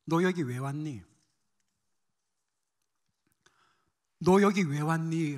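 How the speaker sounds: low, tender questioning; gentle voice of God. Retold or imitated. God gently questioning a burnt-out missionary, gentle. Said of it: "부드러운 음성으로 저에게 이렇게 말씀하셨습니다".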